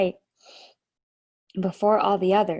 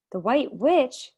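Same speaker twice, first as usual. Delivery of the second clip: surprised; 5 semitones higher, 4 dB louder, slower than usual. A narrator's reading. Edmund startled by the name.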